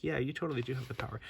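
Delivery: lightly acted, hurried agreement; lightly voiced Teela. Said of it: "And then there's Tila saying".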